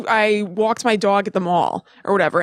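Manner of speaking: I walked my dog at the mall, New York vowels in dog and mall; New York phrase. Retold or imitated. Missouri kids ask her to say it New York style. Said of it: "They'd be like, say".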